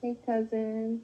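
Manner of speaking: flirtatious. Greeting another speaker on a call: flirtatious. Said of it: "So flirtatious".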